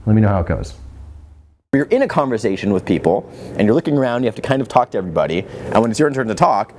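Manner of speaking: ordinary talk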